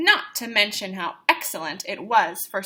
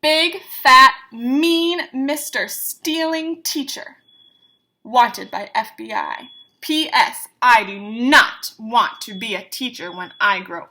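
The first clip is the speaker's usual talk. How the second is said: put-on loud, spiteful child reading her insult; angry child; 6 dB louder than usual. Lily reading her angry drawing about the teacher, loudly. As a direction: spit out the caption.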